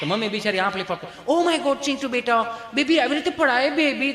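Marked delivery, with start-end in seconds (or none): 1.3-4.1 put-on higher fussing mom cooing at her baby; fussy mother. Modern mother fussing over her fallen son.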